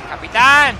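short sharp call. Real, not acted. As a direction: call for the captain across the field. Calling out for the captain.

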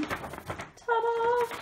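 ta-da. Real, not acted. Revealing the map.

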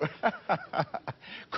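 genuine amused laughing; breathy run of real chuckles. Real, not acted. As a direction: let the laughter spill out after the remark. Amused by clip of emptied studio.

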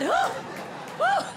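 high hooting woo; hammed-up spooky woo; ghostly woo. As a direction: hoot like a ghost. Ghost cheer.

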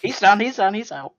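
loud, high-pitched repeated call; mock frantic. Friend acting out calling off the staged fight, mock frantic.

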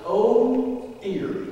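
high startled oh dear; a hammed-up gasp of alarm; high, startled oh, then dropping dear; mock alarm. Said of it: "said something along the lines".

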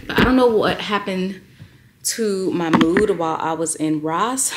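breathless after shopping; out of breath. Real, not acted. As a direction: talk while catching your breath. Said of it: "I'm so out of breath".

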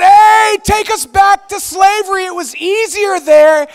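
high, loud mock plea to go back; pleading complaint. Israelites begging to go back, loud mock plea. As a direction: beg like tired slaves.

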